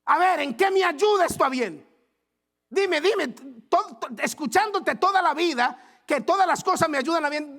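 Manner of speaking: high, loud, outraged demand; the wounded king yelling at his squire, high and loud; furious king. Retold or imitated. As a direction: rage at the squire over the lost finger. King furious after losing finger.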